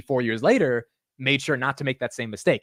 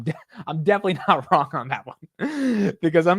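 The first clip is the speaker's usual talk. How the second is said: laughing; 5 semitones higher than usual. Real, not acted.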